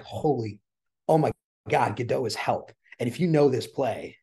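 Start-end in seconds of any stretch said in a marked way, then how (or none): 0.0-2.7 stunned realization. Retold or imitated. Theatre fan reliving the moment the play hit him, stunned awe.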